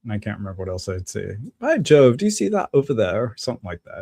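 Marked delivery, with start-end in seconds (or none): 1.6-3.2 hammed-up British stage line, high and loud at first; British accent. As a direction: Lancelot in a school-play British accent. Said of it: "do a little British accent".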